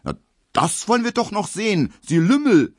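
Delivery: high, loud angry cry; furious retort. Acted. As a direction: shout back red in the face. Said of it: "ruft Emil Kubinke".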